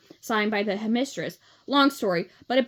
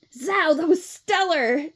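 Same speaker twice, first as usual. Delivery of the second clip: gushing; 6 semitones higher, 4 dB louder, slower than usual. A narrator's reading. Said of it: "Sage gushed".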